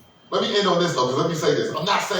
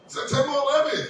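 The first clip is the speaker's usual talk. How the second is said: birthday cheer; 9 semitones higher than usual. Retold or imitated. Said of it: "they're like".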